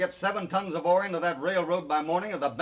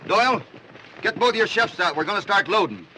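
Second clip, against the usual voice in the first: barking orders; 3 semitones higher than usual. Acted. Boss giving urgent orders.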